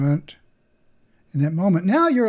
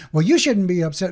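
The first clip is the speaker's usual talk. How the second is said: dismissive; 6 dB louder than usual. Retold or imitated. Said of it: "coming back out to them and go".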